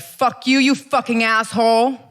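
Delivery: half-volume road-rage outburst; retold road-rage yell. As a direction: re-enact cursing out a driver. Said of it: "So I actually yelled that".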